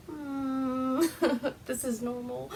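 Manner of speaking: soft, pretend-calm little voice; mock calm. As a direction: play it quietly unbothered. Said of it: "just completely calm".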